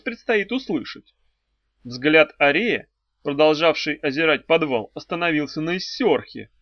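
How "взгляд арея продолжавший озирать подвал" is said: ordinary delivery, nothing marked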